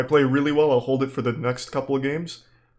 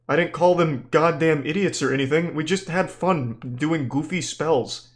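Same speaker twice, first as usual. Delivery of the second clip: indignant, raised-pitch rant at a killjoy; exasperated rebuttal; 3 semitones higher, 3 dB louder than usual. Real, not acted. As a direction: argue back at a joyless critic, exasperated. Rebutting a viewer's accusation of disrespect.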